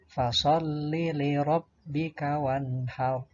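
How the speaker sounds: measured verse recitation with held consonants; Qur'an recitation. Shown as a demonstration. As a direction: recite it carefully as a model for pupils. Contoh bacaan ayat. (tilawah tartil untuk murid)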